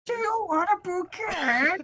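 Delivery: very high, slow fake French accent; bad French accent. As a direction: ham up a terrible French accent. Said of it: "stupid accent".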